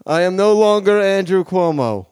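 put-on politician voice with a light Queens accent; self-important governor, Queens accent; Andrew Cuomo. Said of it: "Governor of New York State".

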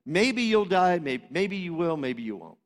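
shrugging maybe-maybe-not voice; casual dismissive tone. Shown as a demonstration. Preacher mimicking how careless Eve's phrase sounds. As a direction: make it sound like no big deal. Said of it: "the tone of it is this".

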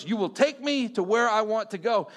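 insistent order in a put-on Russian accent; imitating a commanding Russian accent; mock Russian accent, refusing to budge. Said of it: "thick, heavy Russian accent".

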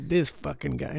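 put-on slow, Brooklyn-sounding botched accent; attempted accent, Brooklyn-like. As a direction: drag it out in a rough Brooklyn accent. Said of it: "Mine comes out like a Brooklyn accent".

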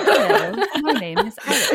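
playful posh meme voice; laughing posh imitation. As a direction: quote the meme in a put-on RP voice. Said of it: "we're like".

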